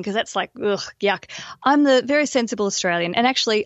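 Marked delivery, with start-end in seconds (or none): 0.0-1.2 disgusted whisper. Real, not acted. 1.6-3.1 mock prim self-intro. Shown as a demonstration. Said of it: "I'm the crazy Australian".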